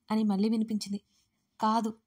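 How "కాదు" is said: angrier. Acted. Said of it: "ఈసారి మరింత కోపంగా అన్నాడు అర్జున్".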